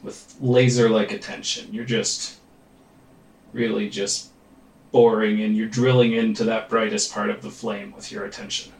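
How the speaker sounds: calm, measured meditation guide with long pauses; guided meditation. Real, not acted. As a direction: lead them gently into focus, leaving space between phrases. Leads a meditation.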